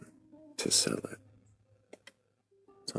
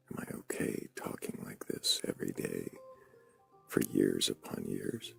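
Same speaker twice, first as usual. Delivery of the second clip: whisper; 4 dB quieter than usual. Real, not acted. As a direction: answer back in a soft whisper. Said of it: "Are you okay talking like this".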